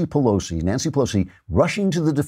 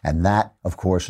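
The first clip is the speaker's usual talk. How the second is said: ordinary delivery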